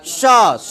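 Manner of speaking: स said as a hushing "sha"; स with a whistling sh sound; whistling palatal sh. Shown as a demonstration. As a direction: demonstrate स as श, tongue to the palate. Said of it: "मुंह से सीटी की आवाज़ आनी चाहिए".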